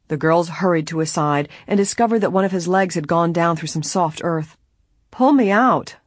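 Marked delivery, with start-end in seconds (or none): 5.1-6.0 loud, high demand for help. A narrator's reading. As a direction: demand it urgently, raising the voice. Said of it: "the gardener demanded".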